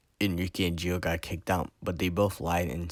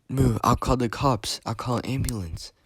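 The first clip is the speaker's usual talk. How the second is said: loud, higher, urgent cry; panicked outcry; 6 semitones higher, 6 dB louder than usual. A narrator's reading. Gio sees Enrique bleeding out, panicked outcry. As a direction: call out in alarm.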